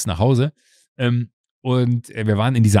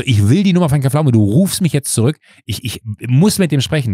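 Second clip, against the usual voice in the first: loud, insistent retold voicemail rant; retold angry phone message; worked-up demand; 2 semitones higher, 4 dB louder than usual. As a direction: demand it like you're fuming. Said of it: "da war ich auf hundertachtzig".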